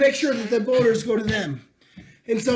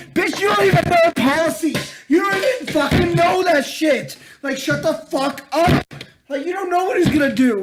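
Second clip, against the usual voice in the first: higher-pitched scolding; indignant rant; 5 semitones higher than usual. Acted. Berating people complaining about Trump, indignant. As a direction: berate them for knowing nothing.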